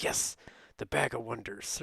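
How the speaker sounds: lightly imitated French Canadian accent; a hint of Quebec French accent. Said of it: "French Canadian accent".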